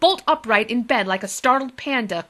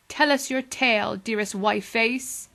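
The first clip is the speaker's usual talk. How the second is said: tender; 2 semitones higher than usual. Acted. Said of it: "said Friday tenderly".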